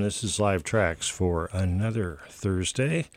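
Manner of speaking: normal talking voice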